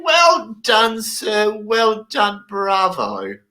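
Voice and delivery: applaud him like a hero; mock congratulations. Congratulating friend.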